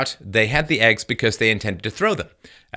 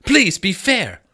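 mock tweet voice; 8 semitones higher than usual. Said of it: "Cicala tweeted".

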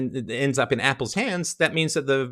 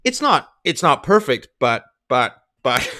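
a hint of a flustered Bill, louder and stumbling; mock Bill; 4 dB louder than usual. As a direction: parody him fumbling for an excuse. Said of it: "And he's like".

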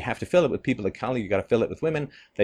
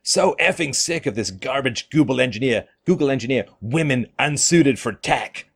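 sneering read of an angry post, a bit louder; mock outrage, slowing at the end; 3 semitones higher, 3 dB louder than usual. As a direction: read it like a fed-up poster ranting. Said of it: "this is various responses that came out".

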